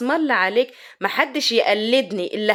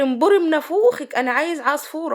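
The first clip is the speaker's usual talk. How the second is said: imitated husband, a bit higher, demanding; swollen-mouthed husband; 4 semitones higher than usual. Husband rejects wife's dish, imitated swollen-mouth demand. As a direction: play him cursing through a crooked mouth. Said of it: "وانا بق ملوح يا وليه".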